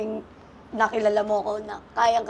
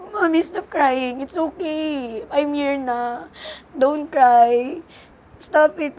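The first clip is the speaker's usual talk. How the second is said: put-on slower and higher, a child's soothing plea; imitating her child; 4 semitones higher, 4 dB louder, much slower than usual. Mother retelling how her child comforted her, imitating child's voice.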